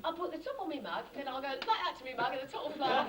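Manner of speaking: high, loud quacking duck voice; Donald Duck voice. Pretend. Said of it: "Impersonation of Donald Duck".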